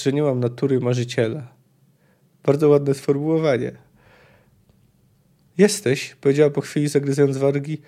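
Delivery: lively audiobook reading of a novel; story narration. A narrator's reading. Narrator reading a Witcher passage to listeners, lively story reading. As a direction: read the scene aloud like an audiobook.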